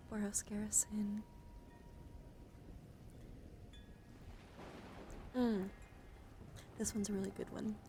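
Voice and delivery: hushed, close whisper for a card showcase; ASMR whisper. Acted. ASMR creator whispering through her Magic cards, gentle whisper. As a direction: whisper as if lulling someone to sleep.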